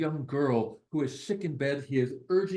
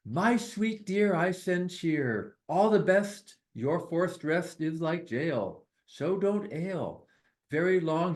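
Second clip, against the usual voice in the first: poem reading. Acted. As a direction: bounce through the little rhymes. Reads translated poem aloud.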